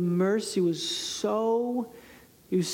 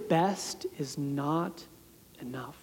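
quiet despair; 5 semitones lower, 5 dB quieter, slower than usual. Real, not acted. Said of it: "we just realize".

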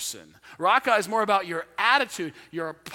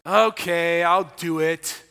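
reluctant, dragging okay; mild sulky teen doing the chore; grudging okay; slower than usual. Shown as a demonstration. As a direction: sound put-upon and unwilling. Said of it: "See, same words, but tone of voice matters".

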